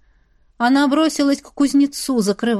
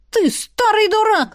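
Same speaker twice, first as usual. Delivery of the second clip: much higher, hurled insult; shrill insult; 11 semitones higher than usual. Acted. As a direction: spit it at the old man. Woman insults the elder.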